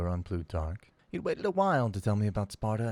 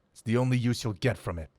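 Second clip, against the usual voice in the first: fierce; 2 semitones higher, 5 dB louder, faster than usual. Acted. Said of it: "he said, fierce-like".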